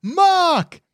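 high shouted name; yelling soldier. Acted. Soldier answering the reporter under fire, shouting. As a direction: holler your name over gunfire.

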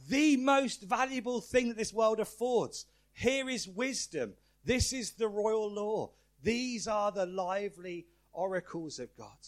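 slow, stately reading, each phrase set apart; formal prayer reading. Acted. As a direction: ceremonial liturgical delivery. Reads the prayer aloud.

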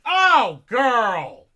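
high, loud shriek of disbelief; shrieked oh girl. Retold or imitated. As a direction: squeal it out, appalled. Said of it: "I pulled the phone away from my face going just".

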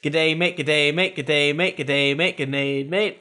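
repeated mock Aussie g'day mate, rising; Australian accent. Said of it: "Tim, if you're reading this".

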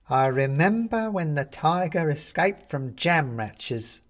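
a lightly voiced china figure calling out; a hint of an old townsman shouting; crying out. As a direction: call out the memory, slow. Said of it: "cries a voice".

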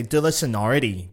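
De la sonority with an English "-ity" ending; butchered De la sonority, all English sounds; mocking American mispronunciation. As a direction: mimic an American mangling De la sonority. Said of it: "one more American say".

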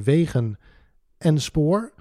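"wegen", a pause, then "en spoor"; quoted director, pausing before "en spoor"; emphasis on the order. Retold or imitated. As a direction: set "spoor" apart after "wegen". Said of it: "Met nadruk op die volgorde".

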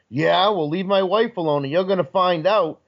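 mild mock yell; retold yelling. Husband defending his wife, mild mock yelling. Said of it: "yelling at each other".

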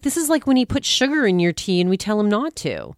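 mock complaint. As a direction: rattle off the grievance. Wife complains about the chef.

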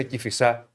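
Κηφισά with the final syllable stressed, no "ia"; folksy clipped-ending Κηφισά for Κηφισιά; colloquial Κηφισά pronunciation. Retold or imitated. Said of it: "Πώς λέμε".

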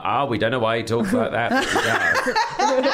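lightly voiced mum, drawn-out high ending; mock-puzzled mum, stretching the last words up high; imitating mum. Mum explaining her different-sounding child, lightly imitated with a high, slow finish. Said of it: "And my mum would be like".

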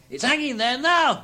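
put-on high, boyish voice; boy's reply. A narrator's reading. Boy tells Scrooge about the turkey, boyish. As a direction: call the answer up as a lad.

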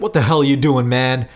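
mildly acted angry confrontation; livid. Livid stranger confronting the speaker at a bar, mock anger. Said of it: "this guy who is just livid".

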